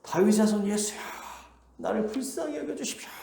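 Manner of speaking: mock distant shout, held and strained upward. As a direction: call out for mercy in a high voice. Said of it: "더욱 크게 소리를 질러요".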